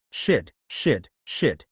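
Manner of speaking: low, tense cursing under pressure; panicked swearing. Acted. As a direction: swear in panic as she falls. Panicked as girl falls.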